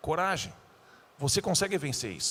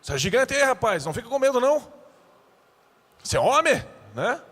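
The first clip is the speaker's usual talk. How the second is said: louder, higher, teasing reassurance; playful Jesus teasing; 6 semitones higher, 5 dB louder than usual. Acted. Jesus teasing the scared disciples, loud and playful. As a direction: jokingly egg on a frightened friend.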